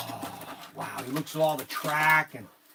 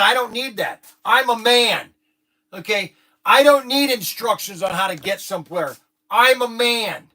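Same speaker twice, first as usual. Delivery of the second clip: macho guy; 3 semitones higher, 8 dB louder than usual. Retold or imitated. Guy scorns instructions, acting macho.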